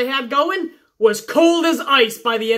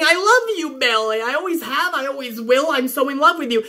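sarcastic quick parody of a love line; mocking love confession. Vlogger mocking Sasha's confession to Bayley, sarcastic. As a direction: toss it off with a sneer. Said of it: "it's just Sasha saying".

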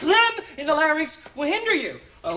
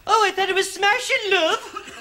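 higher, sarcastic Cockney; mock Cockney accent; 5 semitones higher than usual. Teacher mocking the student's attempt, mock Cockney accent. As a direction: throw his Cockney back at him, higher.

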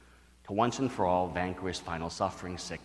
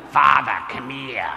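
retold yell; 2 semitones higher, 6 dB louder, slower than usual. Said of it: "She starts yelling".

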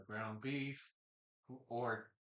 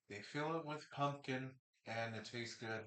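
mouth full; 4 dB quieter than usual. Real, not acted. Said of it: "I apologize for talking with my mouth full".

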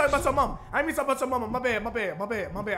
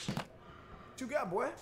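slow, soft whispered taunt; 11 dB quieter, much slower than usual. Acted. Boxer taunting his rival, slow whisper. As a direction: breathe it out menacingly.

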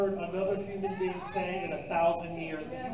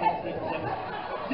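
giggling Naples. Shown as a demonstration. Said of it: "sounds like nipples".

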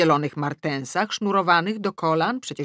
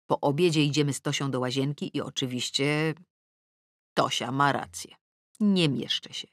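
ordinary delivery

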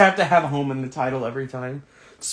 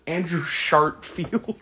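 slow, sneering Andrew Sharpfield; mean mocking; much slower than usual. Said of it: "that sounds mean".

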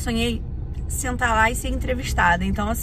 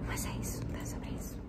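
whisper; 16 dB quieter than usual. Real, not acted. Quiet inside the studio.

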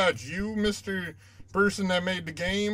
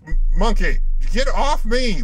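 angry yell; 8 dB louder than usual. Real, not acted. Yelling at attacking monkey.

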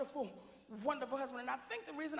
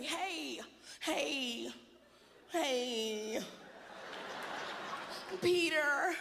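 sweet white wife; much slower than usual. Retold or imitated. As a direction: coax him gently, half laughing. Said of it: "She's gonna say".

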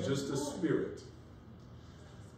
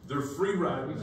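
laughing; 2 semitones higher than usual. Real, not acted. Laughing while mocking group.

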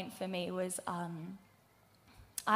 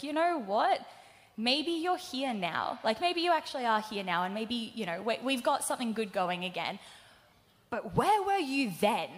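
upset demand; 2 semitones higher than usual. Retold or imitated. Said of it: "I was like".

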